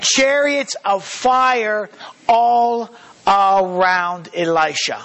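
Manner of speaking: very slow, awed Bible reading; slow reverent reading of the verses; slow scripture reading. A narrator's reading. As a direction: let each phrase land slowly. Reads scripture aloud.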